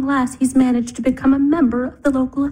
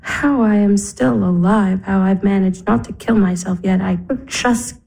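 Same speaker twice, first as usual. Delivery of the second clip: crying; 3 semitones lower than usual. Acted. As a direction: voice heavy with tears, dragging the words. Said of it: "Don't cry".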